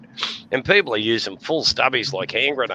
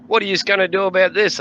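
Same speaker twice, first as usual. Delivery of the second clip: tag only; 9 semitones higher, 4 dB louder than usual. Retold or imitated. Drunk asking cop.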